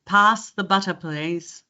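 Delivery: American trying Australian; attempted Australian accent. Shown as a demonstration. Coach taking her turn at switching, attempted Australian accent. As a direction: have a careful go at an Australian accent. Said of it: "That was better".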